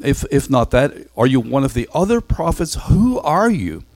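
high, pressing and exasperated, demanding an answer; exasperated delegation. Acted. Religious delegation demanding John name himself, high and exasperated. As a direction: push him hard, you need a name to report.

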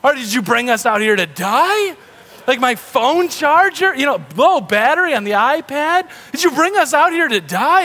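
put-on high, whining kid voice; whiny kids. Kids in the back seat complain to dad, high mock whine. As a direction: whine like a bored kid in the car. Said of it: "the kids in the back are like".

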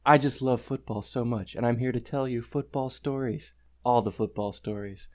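hushed, earnest NPR-style intro, hammed up; NPR host parody. Host introduces the show and co-host in mock NPR voice. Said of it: "that's how they talk".

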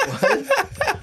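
surprised. Retold or imitated. Retold surprised reaction.

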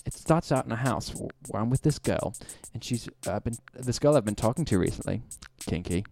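put-on British BBC announcer accent read; British accent like a BBC presenter. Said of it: "read it like a B B C announcer".

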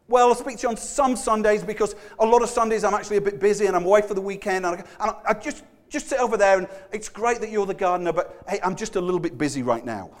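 mock flustered politeness, keep the visitor away; a lightly hammed-up busy churchgoer; flustered busy host. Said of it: "I'll speak to you on Sunday".

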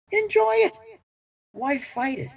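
emphatic. Real, not acted. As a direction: burst out with delight. Emphatic life advice.

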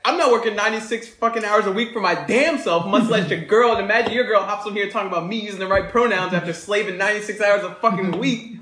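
a touch of a furious rant; retold furious rant. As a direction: vent like an overworked boyfriend. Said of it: "this dude said".

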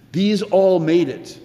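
"all" drawn out and stressed; slow stress on all. Acted. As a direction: slowly hammer home "all". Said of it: "he says".

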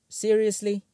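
high, loud disbelieving seriously; incredulous. Real, not acted. Reviewer reacting to a terrible French fries pun, incredulous. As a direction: throw up your hands in disbelief.

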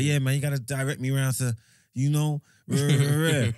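put-on light American accent, breezy and bossy; friend's mock American accent asking security for directions. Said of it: "Man tried speaking the American accent".

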